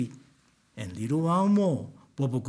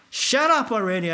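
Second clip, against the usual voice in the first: 1 angry; 6 semitones higher, 5 dB louder than usual. Retold or imitated. Angry at crying Bobo.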